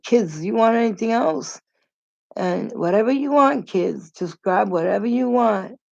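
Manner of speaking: lightly acted big-hearted host; imitated generous host. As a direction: call out a mock-generous invitation, voice lifted. Man playing generous host to kids.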